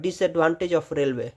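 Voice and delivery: advantage of roadway drawn out word by word; very slow heading read; slow dictation. Shown as a demonstration.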